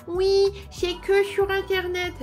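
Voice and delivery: quoting shop staff. Retold or imitated. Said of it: "on me disait".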